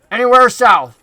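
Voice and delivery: lightly voiced southern goblin; Finch, southern accent. Goblin sending the freaks away, emphatic southern-accented jab. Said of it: "the goblin from the north with the southern accent".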